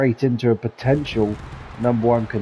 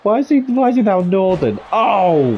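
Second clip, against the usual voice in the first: laughing; 8 semitones higher, 5 dB louder than usual. Real, not acted. Laughing question at partner.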